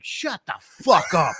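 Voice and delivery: slow, laughing mock shout; fed-up viewer yelling at the hobbits, laughing; laughing retort. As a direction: bark it out through laughter. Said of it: "And you're just like".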